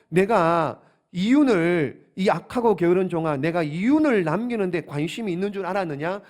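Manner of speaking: preacher voicing a reproving master; acted rebuke. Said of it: "책망하면서 이렇게 말하는 겁니다". (주인이 종을 책망하는 말투)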